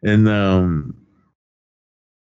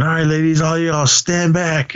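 mock cop command; 5 semitones higher than usual. Stripper cop addressing the bachelorette party, mock command. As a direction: play the stripper ordering the crowd back.

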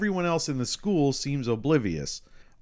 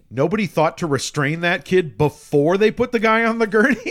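higher, louder, laughing disbelief; incredulous laugh; 7 semitones higher, 8 dB louder than usual. Retold or imitated. Son marveling at the unrestrained kid, laughing disbelief.

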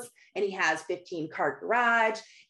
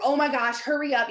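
raised-pitch retold fluster; flustered hurrying; 4 semitones higher, 3 dB louder than usual. Mom running late hurrying her family, flustered. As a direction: act out rushing everyone along.

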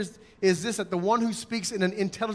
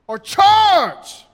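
loud charge call; 11 semitones higher, 12 dB louder than usual. Shown as a demonstration. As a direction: charge shouted much higher and louder. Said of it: "how do we know".

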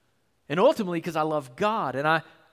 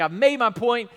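Paul's confident claim; 4 semitones higher, 4 dB louder than usual. Retold or imitated. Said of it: "He's like".

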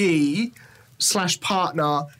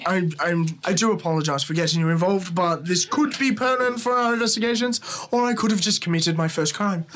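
apologetic; 3 semitones lower, faster than usual. Acted. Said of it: "point at the lock and go".

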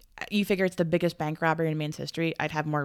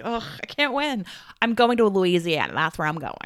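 loud, hammed-up giving up; mock exasperation; 2 semitones higher, 6 dB louder than usual. Co-host fed up with being corrected, mock exasperated. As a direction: throw up your hands in comic frustration.

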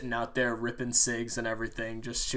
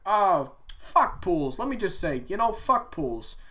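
higher, louder gruff rant voice; imitated coworker rant; 7 semitones higher, 4 dB louder than usual. Coworker ranting to him about pools, mimicked higher and louder.

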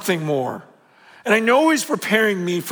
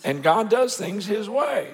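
J. Vernon McGee; 4 dB quieter than usual. Retold or imitated. Pastor lightly imitating a radio preacher's odd voice. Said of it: "He had a weird voice".

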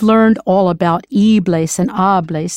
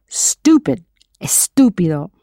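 whisper. Acted. Teacher whispers the rude word.

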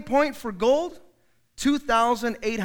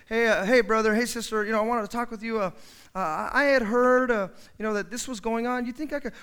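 hesitant timid approach. Acted.

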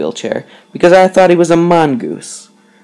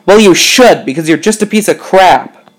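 mock scream; 4 semitones higher than usual. Ice cream man berating a kid, mock yelling. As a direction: hit the opening hard, like a half-hearted yell. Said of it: "screamed at him at the top of my lungs".

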